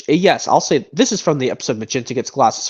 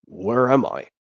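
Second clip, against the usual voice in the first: Han Solo impression; 3 semitones lower, slower than usual. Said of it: "another impression from this movie".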